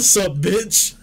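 high, loud mimicked jeer; mock shouted greeting; retold taunting call. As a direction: shout it high, on the edge of laughing. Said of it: "he was like".

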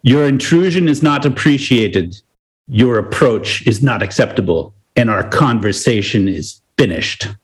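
lightly put-on stern German accent; measured, formal rebuke with a mock German accent. German colonel dismissing the woman who walked in, mock German accent. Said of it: "I just wanna do the German accent".

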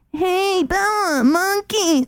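high, drawn-out Boston junkie voice; a Boston junkie mom calling her kid, high and strung out; Dorchester junkie voice. Retold or imitated. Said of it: "the most Boston, Dorchester junkie voice ever".

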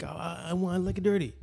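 high, stammering put-on royal voice; mock creepy prince. Podcaster acting a prince admitting his taste, high mock creepy voice. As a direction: stammer out a guilty little confession.

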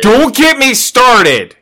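high, drawn-out exasperated cry. Real, not acted. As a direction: throw up your hands, fed up. Exasperated outburst.

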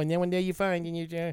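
high, sing-song cartoon doll voice; cartoony voice. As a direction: voice a pull string doll. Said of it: "It has to be in that cartoony voice too".

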